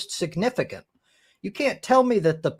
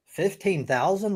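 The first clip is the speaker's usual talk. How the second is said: incredulous; 3 semitones higher, 4 dB quieter than usual. Real, not acted. Incredulous at the low figure.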